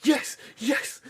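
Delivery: high, held-back mock cheer; excited cheering, re-enacted at normal volume; imitating hype crew. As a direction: egg someone on in a high voice. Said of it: "hyping me up".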